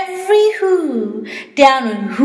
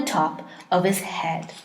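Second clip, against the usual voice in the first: whispered; 8 semitones lower, 10 dB quieter than usual. A narrator's reading. Narration dropped to whisper.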